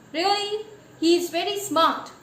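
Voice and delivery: a mocking, doubtful echo; sarcastic. Real, not acted. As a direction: throw it back skeptically. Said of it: "you have confined your definition".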